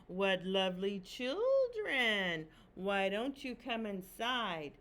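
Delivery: put-on slow, sugary old woman luring children; lightly voiced coaxing witch; sweet old witch. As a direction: lure the children in slowly. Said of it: "the old woman who lived there came out and said".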